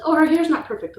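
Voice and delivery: high, loud snippy remark; mock critic. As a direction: imitate a picky critic. Mocking critics.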